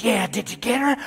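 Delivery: a hint of a low demon boss; mild demon boss asking about Megan; lightly voiced demon boss. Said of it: "He says".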